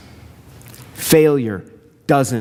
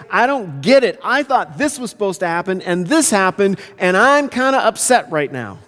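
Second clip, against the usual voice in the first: acted exasperation, pitched up; frustrated complaint; 6 semitones higher than usual. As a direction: confront God with honest frustration. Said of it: "you might get frustrated with him".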